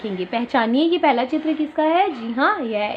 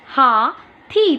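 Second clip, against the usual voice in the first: slow teacher model; much slower than usual. Shown as a demonstration. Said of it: "क्या है ये?".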